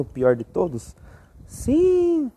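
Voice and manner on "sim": high, exaggerated shout of yes; answering his own question theatrically; emphatic yes. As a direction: sing out the answer.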